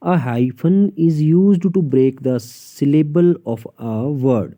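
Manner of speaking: dictating a textbook rule; slow rule reading. Shown as a demonstration. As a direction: read the rule out slowly, word by word. Reads English rule aloud slowly. (धीरे-धीरे नियम पढ़कर सुनाना)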